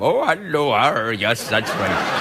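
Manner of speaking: Somali pirate accent mix. Shown as a demonstration. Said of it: "I'll just combine the two".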